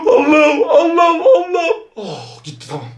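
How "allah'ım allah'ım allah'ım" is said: fearful plea. Real, not acted. Praying in fright during game.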